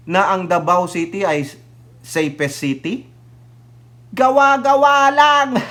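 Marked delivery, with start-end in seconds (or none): 4.1-5.6 scoffing. Real, not acted. Scoffing at a safe-city claim.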